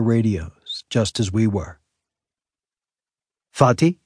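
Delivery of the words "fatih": put-on high, curious little boy; a four-year-old asking his dad; small child voice.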